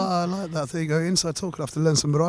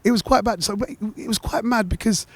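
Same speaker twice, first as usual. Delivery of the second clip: croaky, rough morning voice; 5 semitones higher than usual. Real, not acted. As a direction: talk through a croaky throat. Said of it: "my croaky voice".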